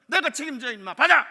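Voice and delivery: loud, high forceful order; commanding shout. Retold or imitated. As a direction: bellow that you take the blame. Manager ordering the clerk. (지점장이 직원에게 크게 호통치며 명령)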